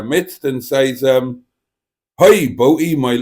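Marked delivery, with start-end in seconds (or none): 2.2-3.2 put-on loud, mistaken West Country-Welsh accent; botched girlfriend impression in a Welsh-Somerset accent; sounding like Tracy. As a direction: aim for Liverpool and land in Welsh-Somerset. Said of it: "why she's sounding like Tracy there".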